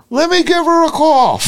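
lightly hammed-up helpful townsman; mock eager helper. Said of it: "He goes".

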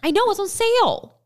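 high excited squeal; shrieking jackpot winner. Real, not acted. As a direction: squeal like winning a prize. Thrilled about pink chair.

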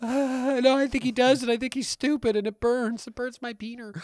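mock pain. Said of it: "Can I have Jason back?".

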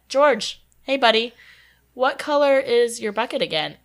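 imitated pointed, pally question; chummy call-out. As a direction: call to the ghost like a buddy. Retells calling out to the ghost.

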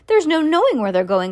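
high storybook cry, no real laughter; gleeful cry. A narrator's reading. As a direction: call it out with mild glee. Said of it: "cried Mister Wonka, hooting with laughter".

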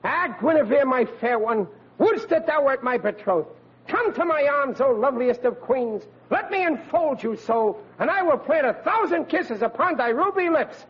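lightly hammed-up romantic knight; hammy knight. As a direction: mildly overblown stage lover's vow. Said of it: "rehearsing a particular scene".

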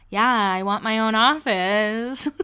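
slow, drawn-out imitation of nervous acting; mock nervous. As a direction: imitate an awkward actress, stretching the words. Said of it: "All nervous".

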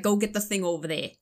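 imitated Southern accent, dropped r's; thick Southern accent. Dad sending daughter to fetch a thing, imitated thick Southern accent. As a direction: lightly put on dad's thick Southern accent. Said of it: "he just puts it on thick".

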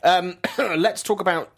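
wheezy, throat-clearing voice; wheezing while talking; audible breathing. Real, not acted. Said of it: "Sorry, I'm wheezing today".

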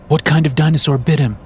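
alarmed. A narrator's reading. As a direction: demand it in a panic. Ivy wide-eyed after hitting Felix.

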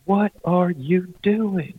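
high, slow, drawn-out mock yell; retold slow scream. Lady demands again what the hunters are doing, slow high yell. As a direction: stretch each word like an outraged neighbour. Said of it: "this lady just screaming".

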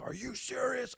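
high, incredulous squeak of disbelief; sarcastic are-you-serious from a vet; mock disbelief. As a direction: act scandalized by the rookie. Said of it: "offends you that much that you're like".

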